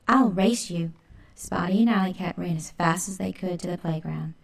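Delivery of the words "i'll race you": louder playful shout. Acted. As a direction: call out a challenge. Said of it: "and shouted".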